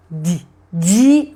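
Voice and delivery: di, di said as clipped repeated syllables; sounding out di. Shown as a demonstration. Teacher sounding di for a child. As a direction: tap out di twice like a phonics drill. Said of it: "faz o som".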